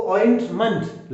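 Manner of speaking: ऑइंटमेंट ending in a reduced "munt"; weak ending. Shown as a demonstration. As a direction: keep the last vowel of ऑइंटमेंट weak, a schwa. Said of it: "last में वीक sound आता है". (ऑइंटमेंट के अंत में हल्का "मंट")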